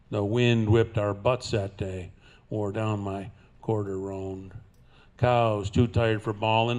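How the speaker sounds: cowboy poem recitation; cowboy twang. Acted. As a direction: recite it like a trail-worn cowboy poet.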